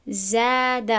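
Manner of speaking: زاد with a thin light alif; light alif after za. Shown as a demonstration. Teacher giving an example of a light alif. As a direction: say زاد with a thin clear vowel. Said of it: "ز از جمله هفت حرف پر نیست".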